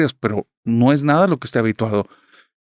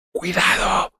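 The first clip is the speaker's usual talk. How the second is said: shouted warning; 8 semitones higher, much slower than usual. Retold or imitated. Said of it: "gritándome".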